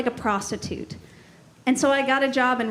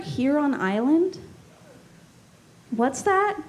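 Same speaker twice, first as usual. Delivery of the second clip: fake interest. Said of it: "you have to pretend like you like it".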